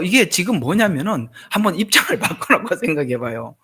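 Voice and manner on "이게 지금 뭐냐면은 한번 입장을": normal talking voice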